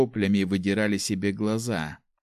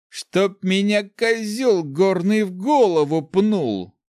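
much higher, louder, slow astonished cry; amazed exclamation; 11 semitones higher, 6 dB louder, much slower than usual. Acted. Healed cripple marvelling at his new eye, loud. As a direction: marvel at your own luck. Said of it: "нашёптывал он".

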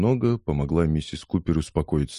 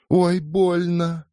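high, drawn-out pained cry; slow, high ouch of pain; 13 semitones higher, much slower than usual. Acted. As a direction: wail as if hit. Liza struck in face.

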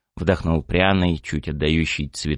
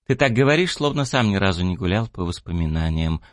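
surprised. Acted. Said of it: "удивилась Блэкджек".

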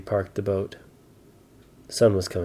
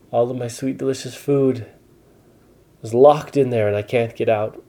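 lightly voiced upset giant, a little higher; a hint of a wailing giant; 4 semitones higher than usual. The giant lamenting his locked food, mildly upset. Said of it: "said the giant".

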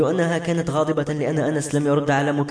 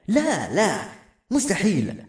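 higher, protesting refusal; distressed denial; 5 semitones higher, slower than usual. A narrator's reading. Son denying Maram is fictional, in protest. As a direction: push the truth away.

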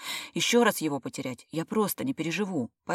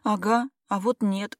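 sobbing; 5 semitones higher, 5 dB louder, slower than usual. A narrator's reading. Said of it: "всхлипнула я".

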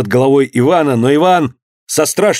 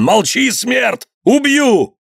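high, drawn-out threatening cry; enraged cry to silence someone; angry shout; 11 semitones higher, much slower than usual. A narrator's reading. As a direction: threaten him, climbing higher. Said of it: "кричал он".

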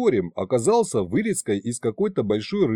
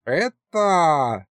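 shocked exclaim; 4 semitones higher than usual. A narrator's reading.

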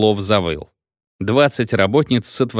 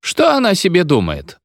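put-on drunk feldsher lecturing; 8 semitones higher than usual. A narrator's reading.

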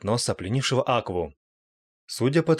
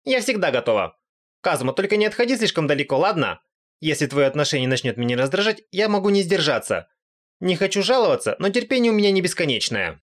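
much higher, smug and impatient; cocky goddess; 7 semitones higher than usual. Acted. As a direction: brag while warning him off. Aqua boasting, impatient. (самоуверенная богиня, высокий голос)

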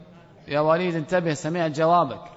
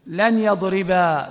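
slow example; slower than usual. Shown as a demonstration. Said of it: "من يعرب؟".

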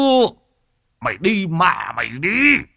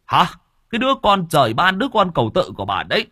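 put-on old father cursing his drunk son; 7 semitones higher, 4 dB louder than usual. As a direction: rail at the son and the wife.

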